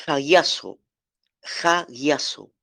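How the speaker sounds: hagiazo said carefully as ah-GYAH-so, the Greek word pronounced for the class. Shown as a demonstration. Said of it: "el vocablo griego para santificado ... es".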